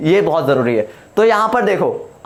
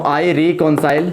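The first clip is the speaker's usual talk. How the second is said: slow dictation; 3 semitones lower, much slower than usual. Shown as a demonstration. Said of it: "अगर यहाँ पर एक example दूँ".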